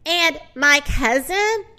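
loud, mildly distressed cry. Acted. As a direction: call it out in mock grief. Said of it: "cried a pig".

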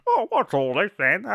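put-on high British accent, laughing; hammed-up British bobby voice. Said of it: "I can do a British accent".

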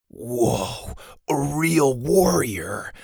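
put-on slow, awed child; admiring. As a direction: marvel at him, drawing it out. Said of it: "admiring the man's gruff bulkiness".

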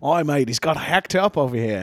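mock Welsh accent; lightly put-on Welsh accent. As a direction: say it like someone from Wales. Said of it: "someone, like, Wales would say".

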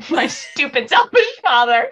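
over-invested dramatic reading, breaking into a laugh; impassioned line reading. Acted. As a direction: get carried away by the character's line. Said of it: "I got so into that line reading".

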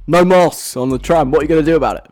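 lightly voiced angry tweet; full Karen. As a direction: play the complaining Karen demanding action. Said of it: "go full Karen and send a angry tweet".

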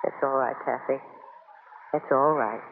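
low, soft and gentle; tender comfort. Acted. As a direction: hold her with your voice. Joe comforts her, moved.

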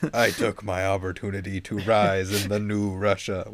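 lightly put-on villain voice; mock Russian villain. Critic mocking the villain's backstory speech, mock intimidating. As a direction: parody a self-important movie villain. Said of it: "He's like".

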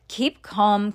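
ordinary delivery, nothing marked

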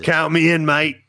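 a hint of an English accent; lightly put-on English accent, count me in mate; joking English accent on a quick agreement. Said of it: "That's my English accent".

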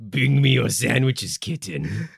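slow, low, sultry diva purr; campy drag queen. Pretend. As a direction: lure them in like a vamping queen. Campy mod persona.

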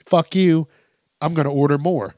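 proud little "fuck you" to the cops; defiant retort. Retold or imitated. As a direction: throw it back at the cops. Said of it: "He's like".

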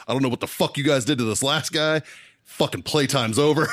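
slowed, firm warning; pissed-off sergeant. Retold or imitated. New sergeant scolding his platoon, firm and slowed. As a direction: lay down the law to the new platoon. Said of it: "I was pissed".

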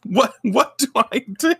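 high, flustered fretting; hammed-up helpless panic; mock panic. Sailor V unable to fix the customers, mock panic. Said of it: "She's like".

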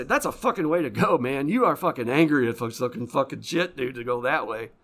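heated indignation; angry disbelief. Retold or imitated. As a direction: shout at the man who jumped. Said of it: "I sit there and say".

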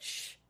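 soft drawn-out shush; a quiet "shh" to keep a secret; hushing. Retold or imitated. Dolls keeping quiet that Jeremy's no wizard, hushing.

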